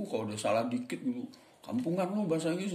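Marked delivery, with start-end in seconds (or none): 1.6-2.7 mock sneer. Imagined mocker of bad English.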